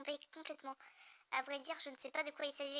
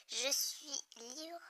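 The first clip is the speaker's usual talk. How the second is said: laughing; much slower than usual. Acted. Reads villain line laughing.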